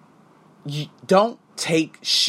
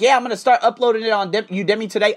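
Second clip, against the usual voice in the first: higher, quick, chuckling line; laughing, quoting himself; 5 semitones higher, faster than usual. Retold or imitated. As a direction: laugh at his own old plan. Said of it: "And I was like".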